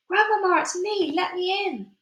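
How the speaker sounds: high pleading call; urgent shout. Acted. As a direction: yell to be let in. Boy shouting through the door.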